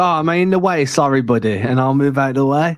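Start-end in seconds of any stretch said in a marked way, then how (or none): 0.0-1.5 friendly buddy. Retold or imitated. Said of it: "when you say it like that, it sounds delightful".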